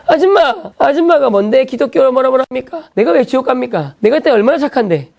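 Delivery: shouting back at the teacher, high and pushy; a teen heckling the Bible teacher; defiant yelling. Retold or imitated. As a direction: talk back like a rude schoolboy. Boy confronts teacher in class.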